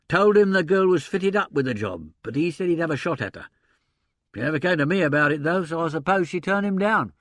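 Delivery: lively agent voice working it out; gruff theatre agent. Acted. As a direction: voice a blustering old stage agent. Sullivan defends himself.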